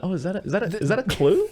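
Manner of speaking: high, feigned-curious "is that a clue?"; mock innocent. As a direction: play dumb in a sing-song voice. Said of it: "I love the".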